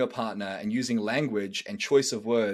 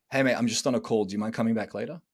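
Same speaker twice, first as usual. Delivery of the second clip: polite and easy; faster than usual. Shown as a demonstration. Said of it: "The way I would have dealt with that".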